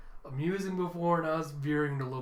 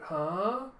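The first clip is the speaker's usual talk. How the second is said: Anya; 4 semitones higher than usual. Acted. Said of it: "Anya's like".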